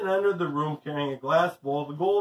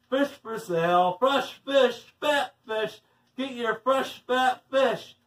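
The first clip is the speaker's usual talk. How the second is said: high, drawn-out fishmonger's call; mock screaming; 6 semitones higher, slower than usual. A narrator's reading. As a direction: hawk your wares in a pitched-up singsong, not truly screaming. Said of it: "screaming anything that came to her head".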